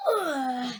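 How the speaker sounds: drawn-out imitated groan; mighty machine groan. A narrator's reading. Storyteller voices the machine letting go, long groan. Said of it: "let out a monstrous, mighty groan".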